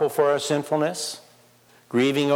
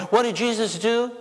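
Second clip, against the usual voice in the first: ordinary talk, nothing marked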